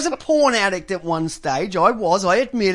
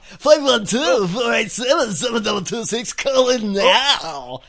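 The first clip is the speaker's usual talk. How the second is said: pukers' call-out again. Retold or imitated. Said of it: "Sounds like they're gonna throw up".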